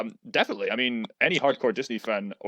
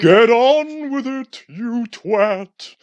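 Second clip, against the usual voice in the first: high, loud, drawn-out holler; theatrical exasperated yell, stretched out; heckling shout; 10 semitones higher, 10 dB louder, much slower than usual. Acted. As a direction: bellow impatiently at the dawdler. Heckles the stalling host.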